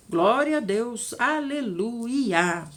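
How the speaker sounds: slow, stretched aleluia; preacher's slow praise; drawn-out praise. Real, not acted. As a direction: savor each word in worship.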